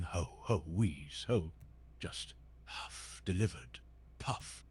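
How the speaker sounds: out of breath after exercise; heavy panting. Acted. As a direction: pant and wheeze through it. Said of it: "panting really heavily".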